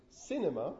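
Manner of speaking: cinema as "CIN-uh-muh"; stress on first syllable. Shown as a demonstration. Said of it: "in this case on the first".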